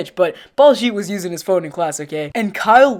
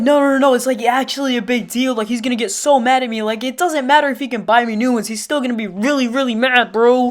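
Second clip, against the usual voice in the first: imitated kid getting heated, slightly raised pitch; mock worked-up protest; 3 semitones higher than usual. Storyteller voicing Baljeet protesting to Kyle, mock worked-up. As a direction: protest like an upset schoolboy, mildly. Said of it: "Baljeet's getting really mad".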